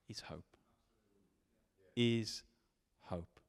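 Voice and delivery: hushed whisper, very soft; whispered hope. Shown as a demonstration. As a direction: breathe the word hope. Preacher drops to whisper.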